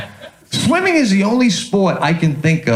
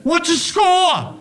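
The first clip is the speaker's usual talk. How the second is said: mild mock yell; 9 semitones higher, slower than usual. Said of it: "He yells out".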